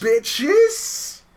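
high, loud yelled bitches; shouted punchline. Pretend. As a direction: yell it out like a wrestler. Joking wrestling intro punchline.

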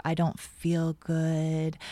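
put-on slow, weak sick-kid voice; faking frailty. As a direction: pretend to feel sick, drawn out. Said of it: "I kind of had that, "Ugh, I don't feel good" in my voice".

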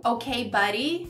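slow, patronizing brush-off; sarcastic. Shown as a demonstration. Teacher showing how "ok, buddy" sounds sarcastic. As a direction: stretch it out with a touch of sarcasm. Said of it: "parece sarcástico".

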